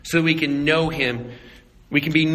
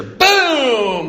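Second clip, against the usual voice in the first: sudden shouted boom, higher; loud boom; 8 semitones higher, 6 dB louder than usual. Retold or imitated. Hunter mimics the rifle shot, loud. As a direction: blurt the gunshot out.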